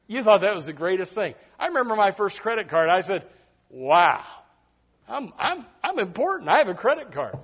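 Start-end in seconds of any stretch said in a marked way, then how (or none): 3.7-7.4 hushed, stammering self-importance; mock awe. Young preacher with first credit card, mock awed. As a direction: softly marvel at your own importance.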